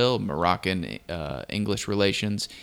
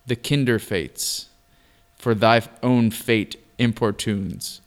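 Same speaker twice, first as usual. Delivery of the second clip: poem recitation; 4 dB louder than usual. Acted. Reads the old poem aloud.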